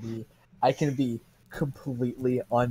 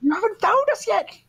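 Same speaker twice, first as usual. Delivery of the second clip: taunting villain voice; 5 dB louder than usual. Acted. Taunting NPC in the game.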